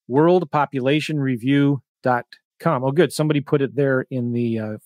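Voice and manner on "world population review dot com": said slowly so they can write it; slow dictation. Shown as a demonstration. Telling viewers to write the site down, slow dictation. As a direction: spell it out at a writing pace. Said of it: "Write this down".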